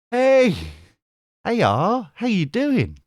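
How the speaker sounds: high-pitched, exaggerated hello; put-on greeting. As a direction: call out high in a silly voice.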